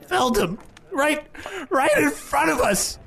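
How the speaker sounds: high, excited little kobold; a small reptile creature chattering. Acted. Trash the kobold speaks.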